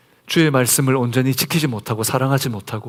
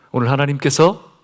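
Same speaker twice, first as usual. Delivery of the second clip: usual speaking voice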